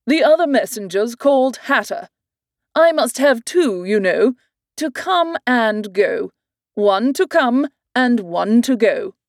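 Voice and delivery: lightly voiced king, slowing at the end; a hint of a fussy king; king explaining to Alice.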